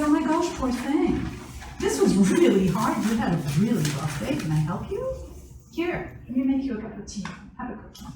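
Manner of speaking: soothing, sympathetic parent voice; validating parent. Shown as a demonstration. Parent comforts upset daughter after a rough day, soothing. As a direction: comfort her gently and kindly. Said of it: "We can say".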